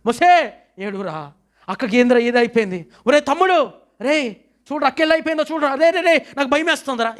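high, pleading, frightened voice; preacher voicing a terrified brother; crying in fear. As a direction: beg him to look, scared. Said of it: "ఏడుస్తున్నాడు".

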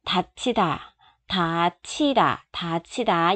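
다치다 said low with a pressed, falling 다. Shown as a demonstration. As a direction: push the first 다 down hard. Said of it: "Nhấn xuống à".

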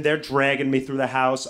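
normal talking voice

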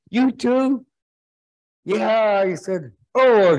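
dismayed surprise. Acted. Rejected friends compare notes.

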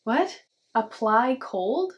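incredulous. Real, not acted. Incredulous reaction.

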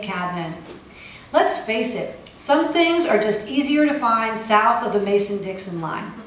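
measured, performed poetry reading; poem reading. Acted. Poet reading her travel poem to an audience, performed. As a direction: read it out like a spoken-word poet.

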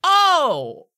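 high, loud startled goblin apology; a squeaky creature caught off guard; hobgoblin voice. Acted. Hobgoblin startled by the party bursting in. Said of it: "and he'll go".

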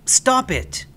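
angry yell. A narrator's reading. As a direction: snap at the pest. Boy yells at creature.

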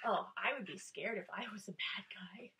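quick playful frightened whisper; mock scared whisper. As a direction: pretend to be spooked. Playful fear of frowns.

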